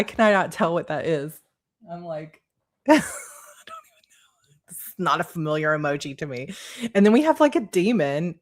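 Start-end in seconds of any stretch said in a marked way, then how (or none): 1.9-6.5 whispered, amused aside; laughing whisper. Real, not acted. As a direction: breathe it out as a giggly whisper. Confused aside to viewers.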